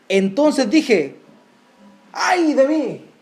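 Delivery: loud, slow cry of woe; anguished lament. Acted. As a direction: cry out ay de mí like a broken prophet. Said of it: "la respuesta del profeta". (lamento angustiado del profeta)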